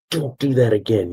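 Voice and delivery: retold angry yell. Father retelling scolding his son, a restrained yell. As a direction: re-enact an angry scolding at half volume. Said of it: "I start yelling".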